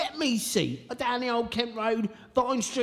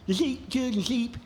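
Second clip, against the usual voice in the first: spitty s sounds. Acted. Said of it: "Spit everywhere!".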